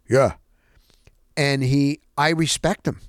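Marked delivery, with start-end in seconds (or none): 0.1-0.4 clipped single word, lightly voiced old coach; terse old coach. Imitating the terse old coach answering reporters. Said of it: "He talks like this".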